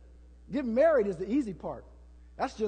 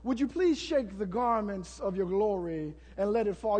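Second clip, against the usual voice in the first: fancy ornate prayer; 3 semitones lower, 3 dB quieter than usual. Retold or imitated. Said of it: "all of those fancy".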